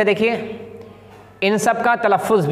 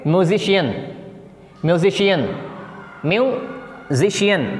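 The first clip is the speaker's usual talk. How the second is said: broken into parts. Shown as a demonstration. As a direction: split "म्यूजिशियन" after the first syllable for learners. Teacher breaks word into parts.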